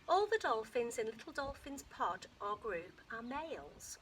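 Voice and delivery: lively read-aloud to a class, lifting the story lines; story reading to children. Acted. Teacher reading a dolphin book aloud to her class, lively storytelling. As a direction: read it to the kids like an adventure.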